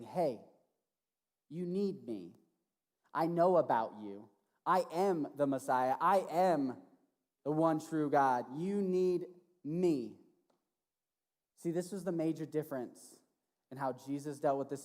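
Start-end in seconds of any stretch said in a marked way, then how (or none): 0.0-10.2 1 loving. Acted. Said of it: "with love and care".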